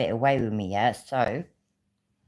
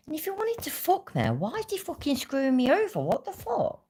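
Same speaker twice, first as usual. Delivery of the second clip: furious. Real, not acted. Furious rant about being scammed.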